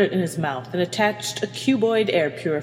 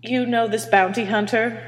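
higher-pitched puzzled question; stumped; 6 semitones higher than usual. Acted. Captain questions engineer about the bounty hunter, stumped. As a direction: ask it, mildly baffled.

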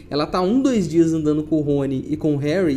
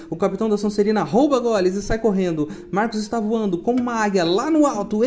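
live play-by-play; 2 semitones higher than usual. Acted. Reads quidditch match commentary.

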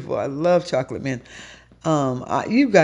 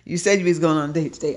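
fast, loud, higher exasperated telling-off; exasperated rant; 5 semitones higher, 3 dB louder than usual. Pretend. Chewing out a date who forgot the time, exasperated rant. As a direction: let it spill out fast and fed up. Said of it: "I'm like".

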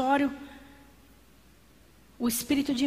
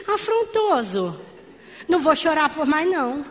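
defiant rebuke; 2 semitones higher than usual. Retold or imitated. Rebuking the devil.

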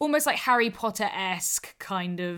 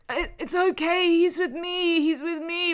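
slurred speech; 9 semitones higher, 4 dB louder than usual. Retold or imitated. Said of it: "not being able to speak properly".

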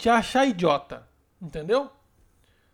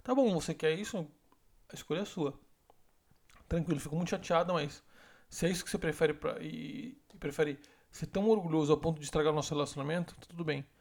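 soft and resigned, sinking quieter; calm, quiet ultimatum; 4 semitones lower, 6 dB quieter than usual. Shown as a demonstration. Woman quietly leaving the choice to her proud boyfriend. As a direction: say it softly, then walk away. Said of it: "você fala".

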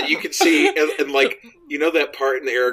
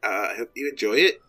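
Taika-style Kiwi accent, lightly put on; New Zealand accent. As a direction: fake a loose New Zealand accent as the director. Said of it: "this was my New Zealand, uh, accent".

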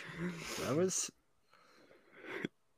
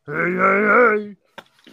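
Cosby out of jail; 9 semitones higher, 7 dB louder, slower than usual. Retold or imitated. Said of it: "He's like".

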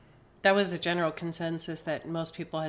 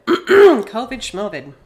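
dismissive; 5 semitones higher, 16 dB louder, slower than usual. Real, not acted. Mocking the illness.

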